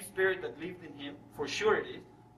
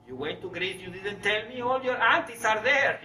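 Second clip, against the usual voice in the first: retold outburst building higher and louder; excited exclamation; 4 semitones higher, 3 dB louder than usual. Grandmother reacting to news of family in Greece, excited.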